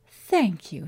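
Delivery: sugary thank-you with a bite; sweet on the surface, pointed underneath; sweetly. Acted. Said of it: "she said sweetly".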